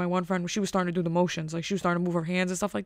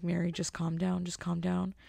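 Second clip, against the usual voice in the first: calming; 6 dB quieter than usual. Retold or imitated. Calming panicking friend.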